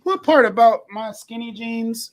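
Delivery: high, slow laughing protest; laughing indignation. Retold or imitated. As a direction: laugh through the question. Mock indignant question, laughing.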